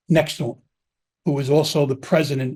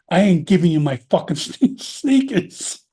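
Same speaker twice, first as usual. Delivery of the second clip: laughing retelling. Retold or imitated. Laughs while retelling the line.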